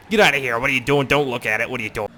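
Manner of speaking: loud, urgent crowd-control commands; imitated enforcer orders. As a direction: order people back like an officer. Enforcers ordering passers-by away.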